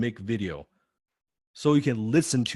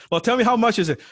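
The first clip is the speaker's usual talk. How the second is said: much higher and louder, pressing question; eager, pitched-up price question; prospect asking price; 12 semitones higher, 6 dB louder, faster than usual. Retold or imitated. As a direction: voice a caller pushing for the price. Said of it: "talking to a prospect".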